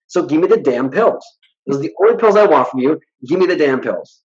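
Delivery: retold exasperated demand; re-enacted impatient insisting; insistent demand. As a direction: press the doctor, mildly fed up. Retold argument demanding pills from doctor.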